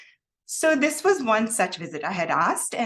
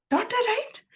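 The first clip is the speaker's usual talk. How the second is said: Swami's gentle question. Retold or imitated. Swami asks her directly.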